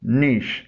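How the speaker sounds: नीश with long "ee" and sh; correct pronunciation. Shown as a demonstration. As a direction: say नीश as "neesh". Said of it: "इसके सही pronunciation है".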